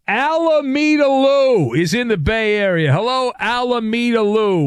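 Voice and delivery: showy radio host welcome; announcer-style greeting. Real, not acted. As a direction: sing out the caller's name like an emcee. Host grandly introducing a caller.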